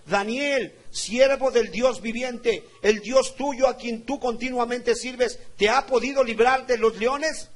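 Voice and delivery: normal talking voice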